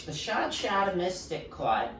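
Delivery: dropped-R New England accent. Shown as a demonstration. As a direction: say it like a Bostonian, Shahd Shattah. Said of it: "say it in a New England accent".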